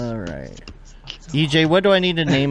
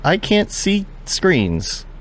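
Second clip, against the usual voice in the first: slow dog voice; 8 semitones higher, much slower than usual. Retold or imitated. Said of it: "It's like".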